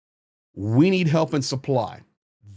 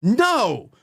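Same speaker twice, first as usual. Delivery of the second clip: emphatic no; 6 semitones higher than usual. Real, not acted. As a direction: slam the door on that idea. Rejecting the mock cheer.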